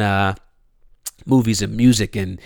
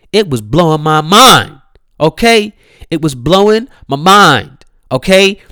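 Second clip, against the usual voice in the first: louder, emphatic raving; excited; 3 semitones higher, 6 dB louder than usual. Real, not acted. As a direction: play it up like it blew your mind. Raving about the sex tape.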